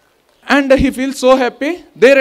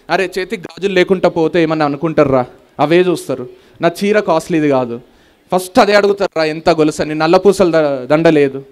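lightly voiced fretting woman; 6 semitones lower than usual. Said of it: "ఇట్లాంటి discussion".

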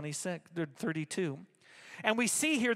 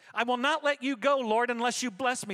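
emphatic declamation; 4 semitones higher, 5 dB louder than usual. Acted. Repeats Jacob's line with force.

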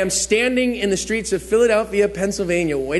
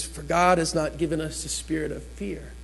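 scripture reading; 4 semitones lower, 8 dB quieter than usual. Acted. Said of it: "the N I V reads this way".

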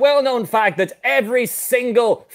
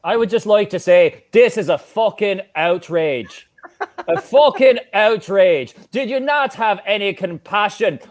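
put-on Irish accent. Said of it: "he could do an Irish accent".

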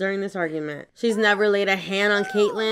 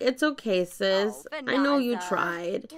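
little sister; 3 semitones higher than usual. Pretend. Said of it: "She's like".

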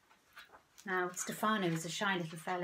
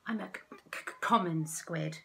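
halting, nervous stammer; shy stammer; 3 semitones lower than usual. Acted. Stefano embarrassed before limpets, stammering. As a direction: trip over the word shyly. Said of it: "he said".

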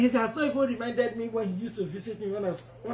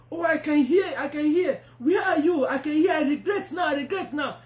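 mild mock screaming, slightly raised; retold screaming; 3 semitones higher than usual. Condemned woman calls out in Hades, retold as mild screaming. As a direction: imitate a desperate cry without a full scream. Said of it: "she started screaming".

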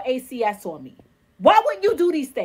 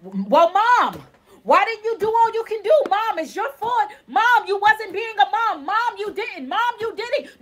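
mock accusing child; 5 semitones higher than usual. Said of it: "voicing critics blaming her".

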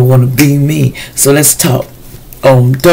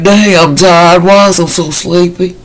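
sleepy voice; 5 semitones higher than usual. Retold or imitated. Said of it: "you like".

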